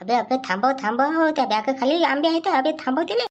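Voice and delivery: high, alarmed plea to stop; rising urgency; panicked urging. Acted. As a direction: stop a friend before the secret gets out. Mangoes under bag about to show.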